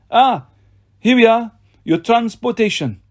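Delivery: gloating villain voice. Acted. Villain Doctor Fawn speaks.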